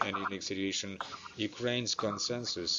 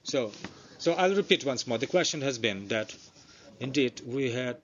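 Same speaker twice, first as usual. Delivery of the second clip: speaking up; 4 dB louder than usual. Real, not acted. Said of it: "Can you please speak up".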